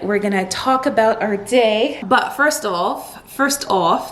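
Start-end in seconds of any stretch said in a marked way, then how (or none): 2.3-3.3 drawn-out, slightly British-sounding words; accidental British accent. Real, not acted. Vlogger slipping while moving to her news, British accent. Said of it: "that sounded very British". 3.3-4.1 a light British accent on a short phrase. Shown as a demonstration. Vlogger repeating her own slip, British accent. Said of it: "that sounded very British".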